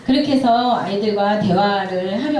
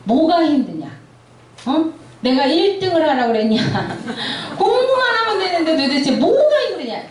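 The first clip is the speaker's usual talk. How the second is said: mock scolding parent; 5 semitones higher than usual. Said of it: "설교하실 때 ... 그대로 하시더라고요".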